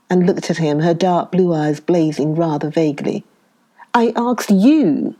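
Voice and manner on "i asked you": higher, louder, slow and out of breath; panting. A narrator's reading. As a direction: push the words out between breaths. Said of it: "she panted".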